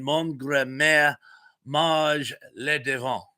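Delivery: careful French, slightly slowed; amateur French pronunciation; French phrase attempt. Shown as a demonstration. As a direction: try the French phrase properly. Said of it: "if I said that properly".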